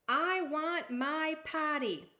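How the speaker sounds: high, loud and slow whine; sassy. Acted. Princess demanding her potty, loud and sassy. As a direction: drag the demand out like a brat. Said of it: "She is sassy little girl".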